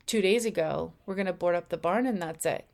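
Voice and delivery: even, settled and matter-of-fact; calm intuition. Retold or imitated. The intuition deciding on the barn, calmly. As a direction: state it simply, no explanation needed. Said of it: "Your intuition may say".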